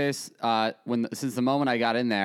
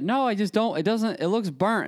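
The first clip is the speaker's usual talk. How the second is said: retold excuse; 8 semitones higher than usual. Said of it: "And I said".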